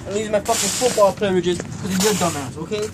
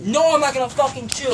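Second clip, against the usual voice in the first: high, angry refusal; real raised-voice exasperation; getting mad; 4 semitones higher than usual. Real, not acted. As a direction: refuse hotly to calm down. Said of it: "I love the way he's getting mad".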